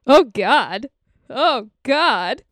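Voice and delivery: mild mock yell of dismay; imitated freak-out. Man finding feminine products everywhere, imitated freak-out. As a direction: act out a small freak-out. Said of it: "Starts screaming, freaking out".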